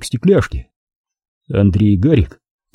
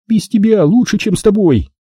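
higher, routine weary retort; perfunctory Milka; 10 semitones higher than usual. Acted. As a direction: toss it off out of habit, pitched up. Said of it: "дежурно ответила она".

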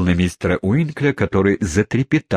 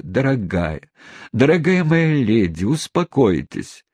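tearfully moved; 5 semitones higher than usual. Acted. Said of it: "чуть не до слёз растроганный".

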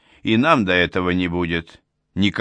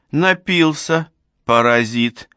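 raised, higher-pitched scolding outburst; indignant cry; 6 semitones higher, 3 dB louder, slower than usual. A narrator's reading. Old woman scolds her drunken neighbour, indignant cry. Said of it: "закричала она".

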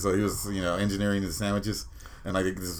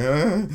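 higher-pitched flustered cry; mock panicked "ah"; 8 semitones higher, 4 dB louder than usual. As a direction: imitate freezing up under pressure. Acts out panic when ordering.

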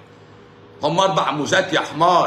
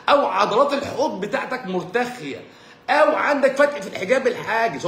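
mock doctor lecture; 6 semitones higher than usual. Mocks the doctor listing causes.

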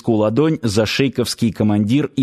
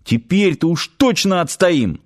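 higher-pitched, eager confidence; joyful exclamation; 7 semitones higher than usual. A narrator's reading. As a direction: exclaim it happily, full of resolve. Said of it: "радостно воскликнул Нанос".

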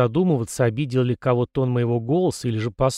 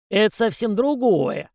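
high, slow sly aside; 9 semitones higher than usual. Acted. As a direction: slip it in slyly. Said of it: "хитро вставил Козырев". (хитро, с лукавством)

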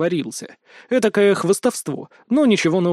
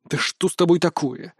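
displeased. Acted. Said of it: "недовольно выдохнул я".

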